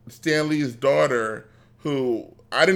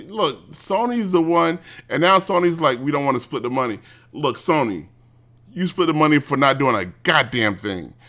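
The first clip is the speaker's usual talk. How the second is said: ranting. Real, not acted. Ranting at Sony.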